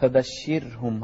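فبشرهم with a thin, light ر; spoken فبشرهم, ر unthickened. Shown as a demonstration. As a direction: soften the ر in فبشرهم, slowly and quietly. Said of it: "نرقق الراء هني".

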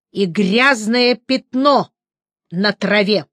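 slow, cold steely threat; hard steely warning; metal in her voice. Acted. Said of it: "в её голосе прозвучал металл".

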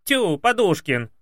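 high, loud, slow amazed exclamation; surprised maid. Acted. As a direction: drawl out her surprise. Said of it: "изумилась горничная".

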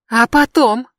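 high, loud shriek. Acted. Brandi answers Adam, high loud shriek. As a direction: shriek the question back. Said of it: "завизжала она".

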